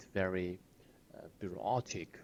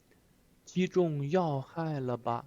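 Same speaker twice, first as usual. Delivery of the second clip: cocky line; 7 semitones higher, 5 dB louder, slower than usual. Retold or imitated. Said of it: "Very cocky, right?".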